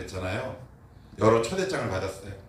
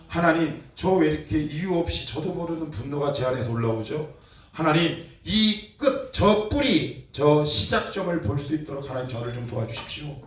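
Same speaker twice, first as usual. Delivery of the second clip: retold prayer; 4 semitones higher than usual. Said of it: "이렇게 얘기했습니다".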